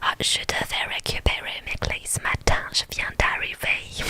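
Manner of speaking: whispered French in a hammed-up American accent. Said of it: "J'adore l'accent". (accent américain exagéré)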